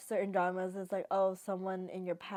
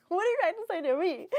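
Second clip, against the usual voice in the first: much higher, fast, amused disbelief; exasperated callout; 11 semitones higher, 5 dB louder, faster than usual. Retold or imitated. Viewer sure the show is talking to her, high and fast. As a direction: fire it off laughing at the hint.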